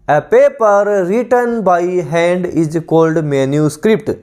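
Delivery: slow, deliberate reading of a definition for students to copy; measured classroom dictation, every word spaced; dictation pace. Shown as a demonstration. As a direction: read it out word by word like a teacher dictating.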